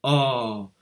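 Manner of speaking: oh dipping like a let-down sigh; disappointed oh. Shown as a demonstration. Teacher models the falling tone with a disappointed oh. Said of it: "comme si vous étiez déçu".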